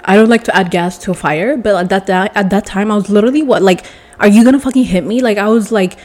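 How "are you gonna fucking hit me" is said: provoking. Retold or imitated. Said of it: "kind of provoking".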